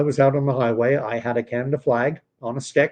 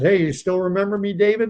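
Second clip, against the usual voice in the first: higher, quicker hopeful greeting, retold; friendly greeting; 6 semitones higher, faster than usual. Reaching out to a childhood friend on Facebook, retold friendly greeting. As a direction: imitate calling out to an old friend.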